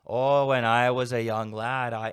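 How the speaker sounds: hammed-up Canadian, like a Wisconsin local; quick mock Canadian accent bit. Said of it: "in a Canadian accent".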